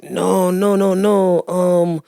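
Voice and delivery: high, slow, hammed-up voice of a young French stoner; French dudes. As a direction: ham up a French kid talking hood slang. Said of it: "these five young French dudes".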